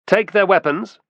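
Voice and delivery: loud, high-pitched command; brisk order. A narrator's reading. Optio to his men disarming the pair, brisk order. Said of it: "said the Optio briskly".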